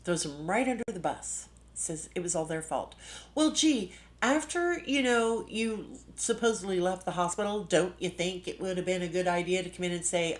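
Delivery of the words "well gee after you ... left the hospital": high, loud sarcastic "well, gee". Real, not acted. Scolding the absent woman, high and sarcastic. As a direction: sneer it out, mockingly high.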